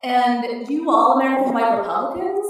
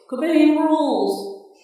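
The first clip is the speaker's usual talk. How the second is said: slow, high, loud cheer; gratified shout; 6 semitones higher, 5 dB louder, much slower than usual. A narrator's reading. Audience member shouting back to the comic, pleased. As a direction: holler it back from the crowd. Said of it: "someone shouted back, gratifiedly".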